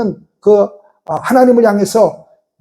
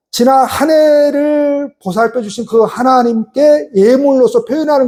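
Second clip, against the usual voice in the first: preaching emphasis; 3 semitones higher, slower than usual. Real, not acted.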